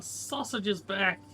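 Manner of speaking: happy slow proclamation; delighted announcement. Acted. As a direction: savour the big news. Announces return to villagers.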